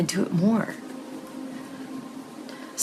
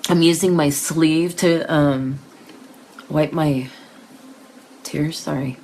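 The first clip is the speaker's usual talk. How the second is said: tearful. Real, not acted. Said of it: "I get emotional".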